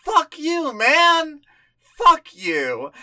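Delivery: sharp, high defiant retort; defiant fuck you. Retold or imitated. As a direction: spit it back at the game. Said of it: "And it's like".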